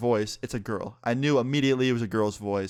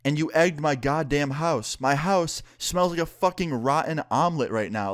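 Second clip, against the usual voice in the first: retold indignant complaint; 4 semitones higher than usual. Retold angry complaint about egged house.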